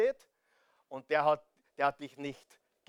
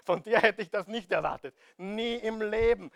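emphatic mock disbelief; mock surprise; 2 semitones higher than usual. Preacher acting out a God who never expected this, emphatic mock surprise. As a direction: act astonished, firm and full-voiced. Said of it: "Glaubst du wirklich, dass Gott überrascht ist?".

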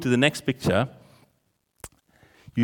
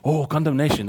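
mimicking the crowd; faster than usual. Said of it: "everything goes on towards condemnation".

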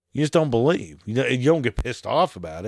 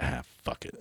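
much lower and softer, a weary give-up; resigned sigh; 9 semitones lower, 13 dB quieter than usual. Retold or imitated. Host retelling giving up on the website, low weary mutter. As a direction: let it drop, barely voiced. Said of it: "I was like".

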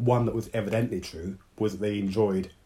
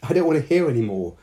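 higher, quick, fighting back a giggle; stifling a giggle; 6 semitones higher, 6 dB louder, faster than usual. A narrator's reading. Hannah to Dao, covering her ears, stifling a giggle. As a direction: protest through a held-in laugh. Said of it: "stifling a giggle".

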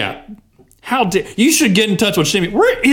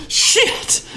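whispered curse. Real, not acted. Hears more callers remain.

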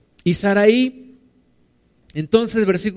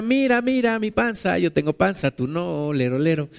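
mocking taunt; 4 dB quieter than usual. Agar taunting her mistress.

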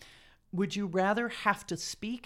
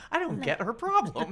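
higher mock baby-talker voice; baby voice people; 5 semitones higher than usual. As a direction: lightly mimic a baffled baby-talker. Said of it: "baby voice people would be like".

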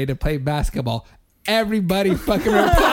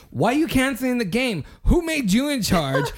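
imitated outraged challenge, pitched higher; indignant confronting; 5 semitones higher than usual. Retelling coworker's break-room challenge to Rodolfo, indignant. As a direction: demand answers in a raised-pitch mock scolding.

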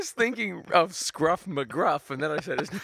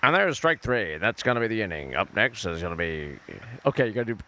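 mock announcer; 4 semitones lower than usual. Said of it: "I'm calling this baseball game".

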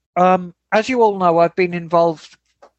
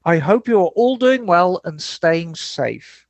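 mock Birmingham lilt reading the email; a lightly put-on Brummie woman's voice; Birmingham woman accent. Host reads a listener email in a Birmingham woman's accent. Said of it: "I'm gonna do this in an accent of a woman from Birmingham".

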